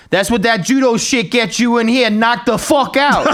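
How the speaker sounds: hammed-up crowing, drawing out the final words; adrenaline-fuelled coach. Boxing coach to the man he just choked out, mock adrenaline rush. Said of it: "fucking all full of adrenaline".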